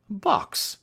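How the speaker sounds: mock astonishment at the idea; astonished. A narrator's reading. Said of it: "look of surprise became more marked".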